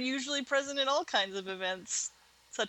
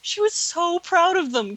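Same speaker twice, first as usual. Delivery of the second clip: higher, drawn-out gush; lightly acted giggly; 8 semitones higher, 6 dB louder, slower than usual. A narrator's reading. Karen gossiping to her friend, lightly acted giggly. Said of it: "Karen giggled".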